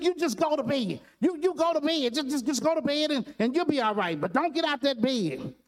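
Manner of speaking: high, rushed, stammering sergeant; a tough sergeant flustered and fumbling for words; flustered sergeant losing it. Retold or imitated. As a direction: drill sergeant suddenly flustered, babbling to comfort the recruit. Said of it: "he just lost it".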